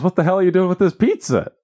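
high-pitched retold indignation; pissed-off girl. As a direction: imitate an angry girl confronting pizza thieves. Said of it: "Some pissed off girl comes running over".

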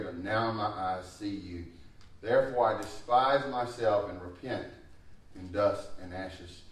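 earnest scripture reading, slowing at the end. Acted. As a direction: read Job's confession with weight. Reading Job's answer aloud.

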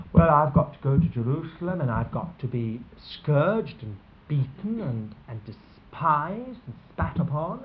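low, quiet and heavy, a touch of gloom; gloomy. Retold or imitated. A loved one announcing his death, gloomily. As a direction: speak it like grim news you dread saying. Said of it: "starts talking in a gloomy way".

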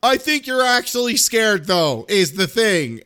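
mock insistent daughter. Imitating daughter needling her dad, high and insistent. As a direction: press the point as a nagging kid.

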